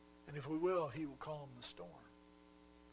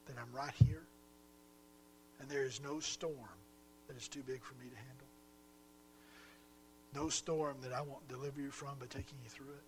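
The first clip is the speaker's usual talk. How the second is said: gentle questioning. Acted. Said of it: "what he's asking is this".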